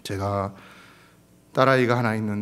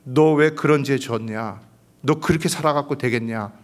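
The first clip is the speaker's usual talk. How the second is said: mild mock rebuke; 3 semitones higher, 4 dB louder than usual. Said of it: "이렇게 말씀하실 것 같습니까?".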